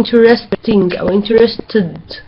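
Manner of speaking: INTERESTING and INTERESTED slowly, broken into syllables. Shown as a demonstration. Teacher showing students how a verb splits into syllables, slow syllable-by-syllable delivery. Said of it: "بنطق الverb على كذا مقطع".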